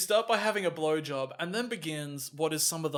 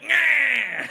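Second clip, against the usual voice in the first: mock Massimo; 8 semitones higher, 8 dB louder than usual. Voicing Massimo dismissing a man.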